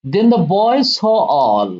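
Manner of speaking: very slow, deliberate line-by-line reading; slow poem reading. Acted. Teacher reading the poem lines to students, slow and deliberate. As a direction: read each phrase slowly so students can follow.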